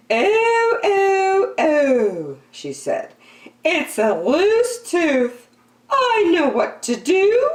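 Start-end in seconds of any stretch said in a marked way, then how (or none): 0.1-2.4 fussing mother. A narrator's reading. Mother fussing over the tooth. 3.6-7.5 fussing mother. A narrator's reading. Mother voiced in story.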